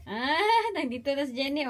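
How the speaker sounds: laughing as she greets her daughter; a real laugh breaking in; laughing hello to her daughter. Real, not acted.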